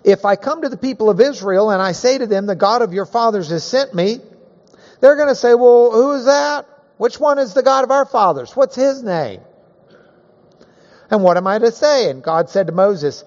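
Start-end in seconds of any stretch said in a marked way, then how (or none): 0.0-5.5 worried Moses. Acted. Moses voices the people's doubt. 5.5-9.4 doubting crowd. Acted. People questioning Moses, voiced higher. 11.1-12.1 worried Moses. Acted. Moses voices the people's doubt.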